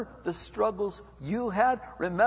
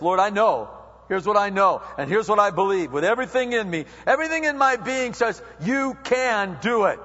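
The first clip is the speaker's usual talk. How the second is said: fervent prayer; 5 dB louder than usual. Acted. Believer praying with everything in him, fervent prayer. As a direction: proclaim it with total conviction, slowing at the end. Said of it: "That's a prayer of faith".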